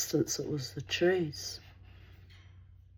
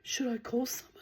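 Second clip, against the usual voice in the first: worried whisper; 6 semitones higher, 6 dB quieter than usual. Retold or imitated. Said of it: "this woman's like".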